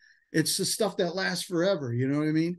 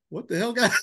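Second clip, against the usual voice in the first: high, laughing mock disbelief; 5 semitones higher than usual. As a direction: laugh it out at a friend. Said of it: "Tyler, like".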